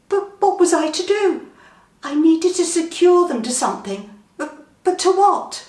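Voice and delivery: high, loud panicky questions; panicked. Acted. Narrator panicking over the cows, high and loud. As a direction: fret aloud in rising panic.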